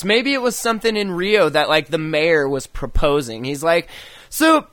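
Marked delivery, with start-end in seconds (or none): 4.3-4.7 mock Mexican accent. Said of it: "in his Mexican Rio accent".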